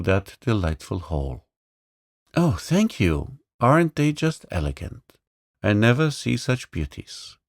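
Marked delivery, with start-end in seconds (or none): 2.4-7.4 put-on stammering boy. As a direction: stammer out thanks in wonder. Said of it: "stammered the poor boy".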